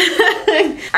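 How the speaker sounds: short high laugh. Real, not acted. Laughs at own praise.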